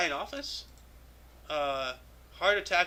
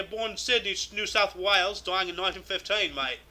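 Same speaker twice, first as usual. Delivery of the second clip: badly faked Aussie accent on a biography; poor Australian accent. Host reads out an Australian cricketer's birthday entry, piss-poor Australian accent. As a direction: put on a rough Australian accent, mate. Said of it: "I know that accent is pretty, uh, pretty piss poor".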